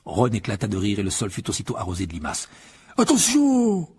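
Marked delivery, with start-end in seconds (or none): 3.0-3.9 loud, high bellowed warning; roar. A narrator's reading. Hagrid pulling Ron from his pumpkins, roaring. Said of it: "rugit Hagrid".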